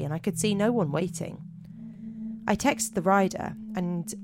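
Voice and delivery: measured spooky-tale narration; deliberate storyteller read; story narration. A narrator's reading. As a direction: read it out like a campfire mystery, pausing between phrases.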